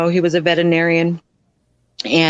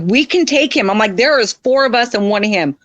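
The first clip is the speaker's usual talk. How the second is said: higher-pitched plea for backup; pressing, pitched-up persuasion; retold urgent rallying; 5 semitones higher than usual. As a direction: imitate urging the others to fight. Retold urging men to stay.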